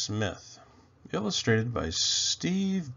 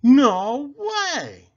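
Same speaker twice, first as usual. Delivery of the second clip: high, loud disbelief; boy insisting loudly, high; 13 semitones higher, 10 dB louder than usual. A narrator's reading. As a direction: blurt it out in disbelief. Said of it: "Alfie insisted".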